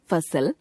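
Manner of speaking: फसल begun with a soft f sound; फसल as "fasal", with nukta. Shown as a demonstration. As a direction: say the फ in फसल with lip on teeth, as f. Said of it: "नुक्ता लगे ज तथा फ में कोमलता".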